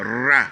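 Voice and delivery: Ra said with a firm, hard R; hard rolled R. Shown as a demonstration. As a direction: press the R hard. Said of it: "le ra doit être un ra qui est un peu dur".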